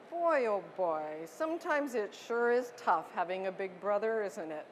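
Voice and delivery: put-on commiserate gently with the child; empathetic parent. Shown as a demonstration. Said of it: "I'm going to model for you".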